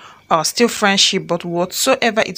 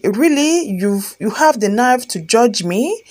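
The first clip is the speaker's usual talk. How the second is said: indignant disbelief; 3 semitones higher, slower than usual. Acted. Wife rounding on her accusing husband, indignant. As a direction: throw the accusation back, incredulous.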